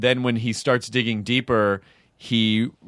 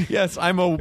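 higher-pitched mock German; put-on German-English mashup accent; 6 semitones higher than usual. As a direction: play a strange German character. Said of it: "Is that a German?".

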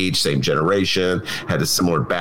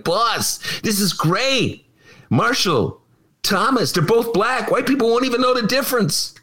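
cynical advisor; 12 semitones higher than usual. Retold or imitated. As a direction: sell it as a gleeful cynical advisor.

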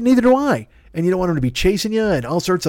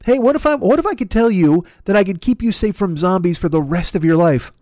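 a higher, pushy huckster pitch; salesman pitch; 3 semitones higher than usual. Acted. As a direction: sell it like a late-night infomercial host. Mock sales pitch to public.

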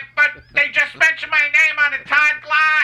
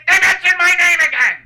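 excited outburst; 4 semitones higher than usual. Acted. Excited outburst then ordering.

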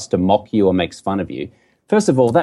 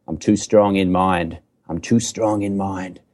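slow, lower, cheeky declaration; cheeky self-assurance; 4 semitones lower, slower than usual. Shown as a demonstration. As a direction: draw it out with a cheeky grin. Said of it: "like, a little cheeky grin".

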